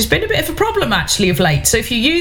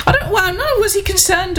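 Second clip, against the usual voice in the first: laughing; 11 semitones higher than usual. Real, not acted. Laughs at listener's concern.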